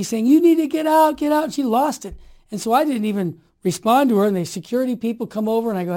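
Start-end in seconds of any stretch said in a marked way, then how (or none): 0.3-1.4 raised, higher mock yell; louder, urgent order, lightly acted; retold scream. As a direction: imitate someone yelling you out. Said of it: "starts screaming at me".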